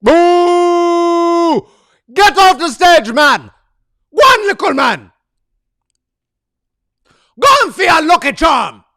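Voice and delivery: loud, high jeering Jamaican crowd; loud mock heckling shout; booing crowd shout. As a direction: yell the crowd's boos in patois. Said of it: "They booed".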